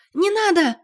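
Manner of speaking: очень высоко и громко; выкрикнуть, бросаясь вперёд; крик. A narrator's reading. Валя выскакивает вперёд, кричит. (Валя кричит мужу не стрелять)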